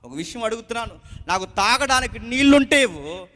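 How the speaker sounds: gently asking a widow for water; respectful request. Acted. Elijah politely asking the widow for water, gentle. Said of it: "చాలా గౌరవంగా".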